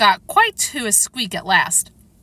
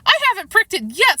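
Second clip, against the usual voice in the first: high, louder, distressed cry; screaming fit; 11 semitones higher, 5 dB louder than usual. A narrator's reading. The screaming Queen answers Alice, high and distressed. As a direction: wail it in a high voice.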